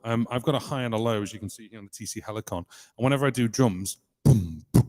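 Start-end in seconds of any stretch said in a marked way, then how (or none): 4.2-4.9 single-voice beatboxed boom. Shown as a demonstration. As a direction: say boom with one voice. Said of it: "if I turn the other two on".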